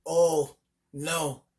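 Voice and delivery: lazy dismissive reply; lazily. A narrator's reading. Elephant lazily brushing off the angry mother. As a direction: wave her off lazily. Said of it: "he replied lazily".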